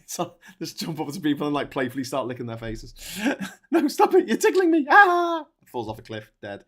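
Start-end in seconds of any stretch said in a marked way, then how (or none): 3.7-5.4 very high giggly squeals; being tickled. Pretend. Tickled victim, then falls.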